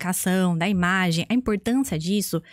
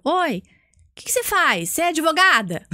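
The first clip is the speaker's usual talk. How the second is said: imitating an inquisitive passer-by, higher pitch; lightly acted nosy questioning, pitched up; curious stranger; 6 semitones higher than usual. Man on a bench asks her job, curious stranger.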